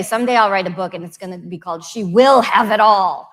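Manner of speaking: words bubbling with real laughter; laughing. Real, not acted. Panelist jokes about her book title, laughing.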